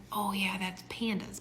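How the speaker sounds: unvoiced whisper to herself; whispered aside. Wife whispering a correction to herself. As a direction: whisper it, realizing.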